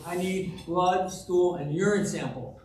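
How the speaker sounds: half-hearted yell, stretched out word by word; mock yelling. Doctor's third try with a hard-of-hearing patient, mildly yelling. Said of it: "the third time he's yelling".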